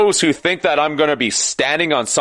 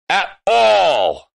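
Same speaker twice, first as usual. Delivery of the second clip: sudden shout; 6 semitones higher than usual. Real, not acted. Passionate rant peaks.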